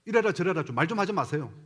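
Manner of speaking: imitated fed-up child, mild protest; child talking back. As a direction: push back at mother in a retold plea. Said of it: "그 소리에 엄마가 너무 충격을 먹었던 거예요". (엄마에게 항변하는 아이 흉내)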